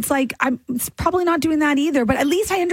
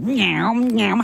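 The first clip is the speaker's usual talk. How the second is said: gum smacking noise; 4 semitones lower than usual. Retold or imitated. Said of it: "you're like".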